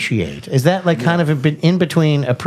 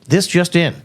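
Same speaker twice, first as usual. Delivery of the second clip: newscaster voice; 4 semitones higher than usual. Acted. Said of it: "my best newscaster voice".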